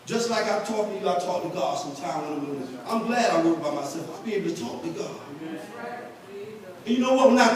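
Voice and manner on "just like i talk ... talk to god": quiet aside. Real, not acted. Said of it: "drops to intimate aside".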